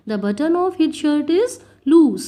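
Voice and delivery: very slow, clear dictation pace; spoken like a teacher dictating; slow example reading. Shown as a demonstration. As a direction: read each word out slowly for the class.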